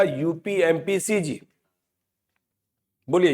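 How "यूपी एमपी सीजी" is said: UP, MP, CG as one connected run; said in one line. Shown as a demonstration. Teacher models a memory list for students, said in one line. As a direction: run यूपी, एमपी, सीजी together as a single list. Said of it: "एक ही line में बोल दीजिएगा".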